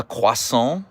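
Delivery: "croissant" as kwah-SOHN with a nasal end; "croissant" as kwah-SOHN, mocking French; French pronunciation. Shown as a demonstration. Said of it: "I'm going to make fun of you".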